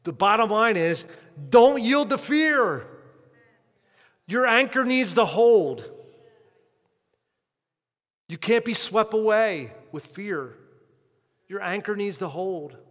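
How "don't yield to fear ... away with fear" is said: loud, higher and slow, hammering it home; preaching climax. Real, not acted. Preacher rallying his church against fear, loud and high. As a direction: lift the voice and drive the point in.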